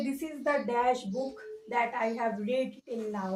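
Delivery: very slow, deliberate reading; slow question read. Shown as a demonstration. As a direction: read the question slowly for the class. Teacher reads question aloud slowly. (ধীরে প্রশ্ন পড়া)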